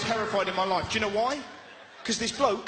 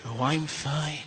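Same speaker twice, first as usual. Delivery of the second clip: mock mum; 8 semitones lower, 4 dB quieter, slower than usual. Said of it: "She's like".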